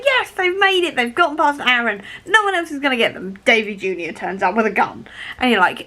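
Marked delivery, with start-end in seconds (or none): 0.0-3.4 mock relief. Imitating reader's hope.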